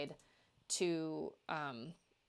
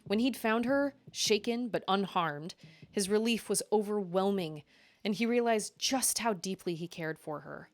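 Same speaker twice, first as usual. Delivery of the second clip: story narration. A narrator's reading. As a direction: read it like an audiobook. Reads her romance novel aloud.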